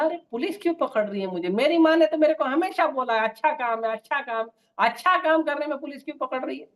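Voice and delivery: arrested son protesting, baffled and indignant. Acted.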